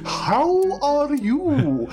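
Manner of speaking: very slow, high Australian drawl; Australian accent. Retold or imitated. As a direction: stretch it out like an Aussie. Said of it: "that's very, very Australian".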